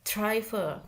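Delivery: driver slowly, with weight on dri and a weak final er; slow stress demo. Shown as a demonstration. Teacher slowly stresses dri in driver for the class. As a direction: stretch driver, leaning on dri and letting er fall away. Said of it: "ada suatu penekanan".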